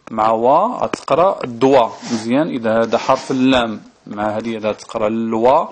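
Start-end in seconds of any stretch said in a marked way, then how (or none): 0.1-1.9 slow demo reading. Shown as a demonstration. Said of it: "حرف الدال".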